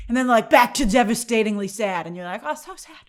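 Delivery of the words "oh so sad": mock sad. Viewer back to sadness.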